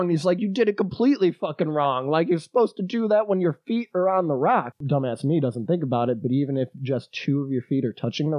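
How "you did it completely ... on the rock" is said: lightly raised, teasing scold; a hint of the scolding old climber; mild scolding old man. Old man scolding the narrator after his fall, lightly raised.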